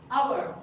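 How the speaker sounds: "hour" starting on the vowel; "hour" said like "our"; silent H. Shown as a demonstration. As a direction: drop the H in HOUR. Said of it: "So H is silent".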